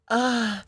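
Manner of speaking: high, drawn-out joke moan; mock sexual moan. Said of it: "You moan, like, sexually".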